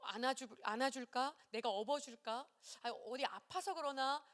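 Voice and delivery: put-on softly coaxing a crying child; soothing. Carer offering comfort to a crying small child, soothing. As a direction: offer comfort in gentle questions. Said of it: "하고 막 달랬어요".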